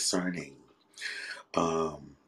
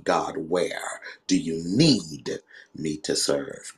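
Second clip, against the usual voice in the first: prophet voice. Acted. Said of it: "Turn your prophet voice off".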